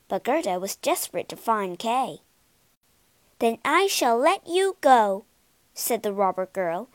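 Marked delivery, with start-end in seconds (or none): 3.4-5.3 proud like a queen. Acted. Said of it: "as proudly as a queen herself".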